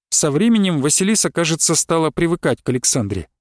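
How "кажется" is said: plain reading voice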